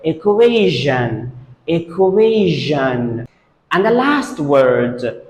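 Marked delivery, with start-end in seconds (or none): 0.0-3.3 EQUATION said ih-KWAY-zhun; correct pronunciation. Shown as a demonstration. Teacher repeats the exception for students, correct pronunciation. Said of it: "So we say it".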